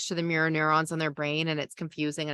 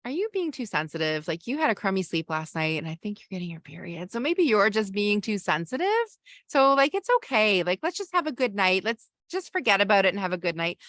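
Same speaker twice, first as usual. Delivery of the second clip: patronizing partner; 2 semitones higher than usual. Shown as a demonstration.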